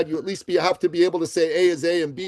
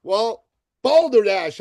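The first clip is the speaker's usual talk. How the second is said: mock indignant; 3 semitones higher, 3 dB louder, slower than usual. Real, not acted. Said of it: "I say".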